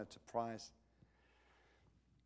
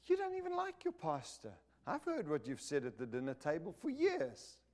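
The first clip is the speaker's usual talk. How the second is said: mock kid retort; 6 semitones higher than usual. Kid's inner voice retorting.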